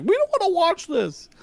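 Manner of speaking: put-on high, whiny kid voice; bored kids. Kids refusing to watch dad's cartoon, high whiny. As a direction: whine it like a bored child.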